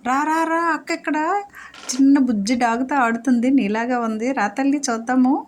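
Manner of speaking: very high sing-song come here; calling the dog. Real, not acted. Owner calling dog over, high sing-song. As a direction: call her in a squeaky lilt.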